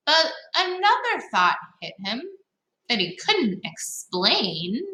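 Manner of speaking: lively storybook read-aloud; reading to children. Acted. Teacher reading a picture book to young listeners, lively. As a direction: read it to the kids with bounce.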